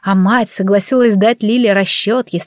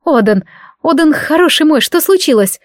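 higher, tender anxious coaxing; worried mother; 6 semitones higher, 3 dB louder than usual. A narrator's reading. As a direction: soothe the sobbing son. Mother comforts frightened son.

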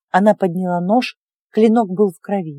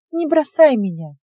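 pleading; 5 semitones higher than usual. Acted. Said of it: "взмолилась она".

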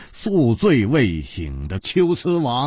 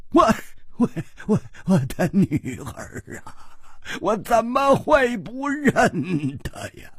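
怒道; 8 semitones higher, 3 dB quieter than usual. Acted. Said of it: "秋瓷王怒道". (又怒又悲，拖着长音)

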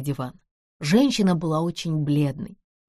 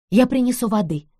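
крикнула; 5 semitones higher, 4 dB louder than usual. Acted. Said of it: "крикнула Нэнси".

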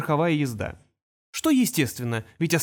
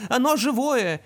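put-on high excited child voice again; repeated toy phrase; 9 semitones higher, 3 dB louder, slower than usual. Toy repeats the little brother's phrase a second time, high. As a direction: echo it like a talking toy. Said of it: "на голос братишки".

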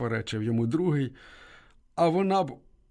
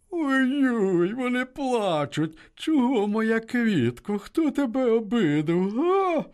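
high, sing-song sneering voice; mocking policeman; 9 semitones higher, slower than usual. A narrator's reading. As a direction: taunt the girl with fake pity. Policeman mocks crying girl.

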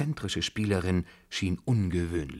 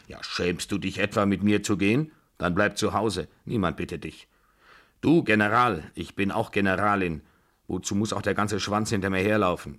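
lightly voiced, scolding old matriarch; indignant Babuschka; 3 dB louder than usual. Babuschka telling the General to stay home, mildly scornful. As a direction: dismiss him with a touch of scorn.

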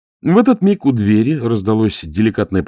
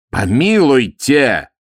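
higher, slow, mock-offended protest; 11 semitones higher, 4 dB louder, slower than usual. A narrator's reading. Burenin butting in, mock-offended protest. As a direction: throw up your hands in mock protest. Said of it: "встрял бывший кирасир".

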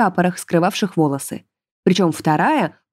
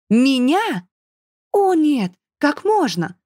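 higher, mock-outraged exclaim; mild exclaim; 6 semitones higher, slower than usual. A narrator's reading. Bride protesting to the forester, mock-outraged. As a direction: act shocked at the idea. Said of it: "воскликнула новобрачная".

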